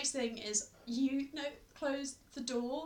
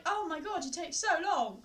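higher-pitched mock impatience; exasperated complaint; 6 semitones higher than usual. Acts out impatience at sibling.

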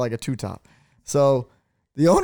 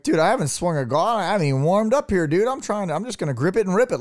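higher-pitched, quickened bro-talk; retold impatient bravado; 6 semitones higher than usual. Golfer protesting to partners at first hole, hyped impatience. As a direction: rush it out, raring to go. Retelling impatience at golf tee.

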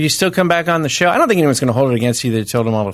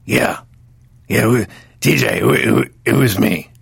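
Lorne Michaels impression; 3 semitones lower, slower than usual. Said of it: "why are you talking like Lorne Michaels".

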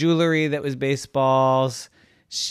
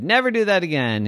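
stern scolding; 7 semitones higher, 4 dB louder, faster than usual. A narrator's reading. Kids scold the brother.

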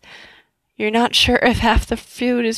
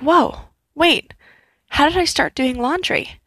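surprised; 5 semitones higher than usual. Retold or imitated. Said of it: "And I was like".

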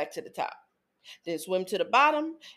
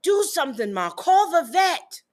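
put-on begging kid; 6 semitones higher, 5 dB louder than usual. Kid begging mom to save fish.

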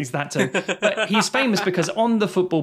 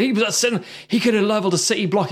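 higher, hurried mock alarm; quick, raised-pitch acted claim; excited film quote; 5 semitones higher, faster than usual. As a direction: rush it like an urgent revelation. Acted film line, then corrected.

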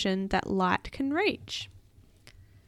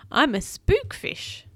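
slow, higher-pitched eerie voice; drawn-out storybook spook; spooky creature; 7 semitones higher, 5 dB louder, slower than usual. A narrator's reading. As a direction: introduce yourself spookily, stretching the words. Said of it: "insisted the creature".

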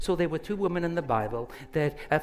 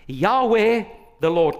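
the Lord's name called out high and loud; proclaiming; 5 semitones higher, 6 dB louder than usual. Acted. Preacher calling out God's name loud and high, in awe. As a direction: ring it out like a herald.

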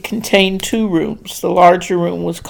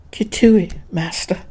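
faint croak, dropping away. Acted. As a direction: croak it out in fear. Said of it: "she managed to croak".

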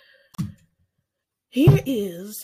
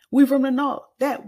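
loud proud brag; 5 semitones higher, 7 dB louder than usual. Acted. Repeated hometown brag.

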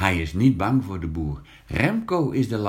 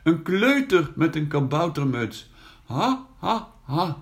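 hammed-up mocking laugh, much higher; mocking laughter; 9 semitones higher than usual. Brother laughing at Janus in the ditch, hammed-up mocking laugh. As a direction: laugh at the soaked little brother. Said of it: "Remco ligt in een deuk".

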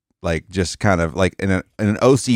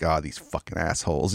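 mock hot-mic grumble; 3 semitones lower, 8 dB quieter than usual. Fake hot-mic grumble after signing off.

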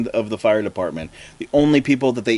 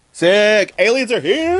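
higher, louder gleeful announcement; excited locals; 8 semitones higher, 4 dB louder, slower than usual. Acted. Locals taunting Carl about the aliens, high and gleeful. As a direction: burst out with the news, pitched up.

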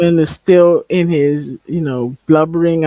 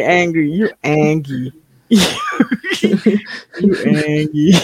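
mock taunt. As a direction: needle him, pitched up and mocking. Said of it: "And I was like".

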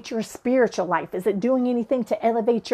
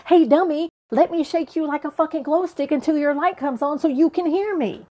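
mock yelling; 5 semitones higher than usual. Higher power getting in your face to wake you, mock yell. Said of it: "not going to yell at you".

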